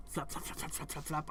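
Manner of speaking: soft flapping sound; quiet mimicked flaps; wing flapping. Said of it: "What sounds like a bird flapping?".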